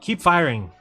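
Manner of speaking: loud urging cry at the screen; shouting at the screen again. Pretend. Viewer yells to the sailors on screen, loud. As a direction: call out to the gunners in the film.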